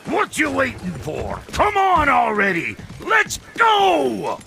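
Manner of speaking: impatient shout. Acted. Impatient blacksmith yelling at mule.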